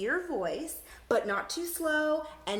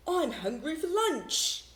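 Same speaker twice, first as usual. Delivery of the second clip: higher, slowish voice for a hungry beast; higher creature voice asking for lunch; 7 semitones higher, 3 dB louder, slower than usual. Shown as a demonstration. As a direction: whine about lunch in a creature voice. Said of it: "say it in a voice to match who's talking".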